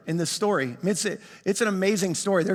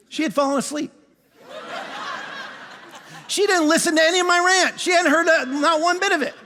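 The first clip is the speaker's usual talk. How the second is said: laughing disbelief; 7 semitones higher than usual. Real, not acted. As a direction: laugh at the punchline.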